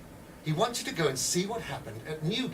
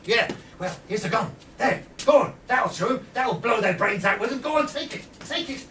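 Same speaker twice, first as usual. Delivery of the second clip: higher, urgent pressing tone; pushy conspirator; 5 semitones higher, 4 dB louder than usual. Acted. Edwards pushing a gun on a pub drinker, pressing and eager. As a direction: shove the gun at him eagerly.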